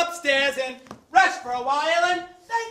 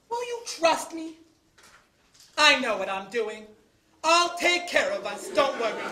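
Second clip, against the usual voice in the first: soft, lower, settling voice; reassuring; 4 semitones lower, 5 dB quieter than usual. Acted. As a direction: promise quietly to take care of her. Husband reassures his frightened wife.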